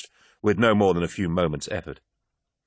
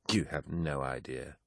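put-on drunk woman; 4 semitones lower, 11 dB quieter, slower than usual.

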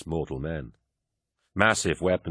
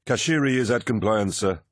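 muffled by a mask; 5 semitones higher, 4 dB louder than usual. A narrator's reading. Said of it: "his voice muffled by his mask".

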